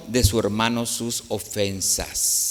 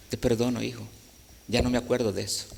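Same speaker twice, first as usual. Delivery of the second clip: much softer, tender reassurance; gentle forgiving voice; 7 dB quieter, faster than usual. Retold or imitated. The Lord answering the preacher's prayer, softly and tenderly. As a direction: soothe a child you forgive.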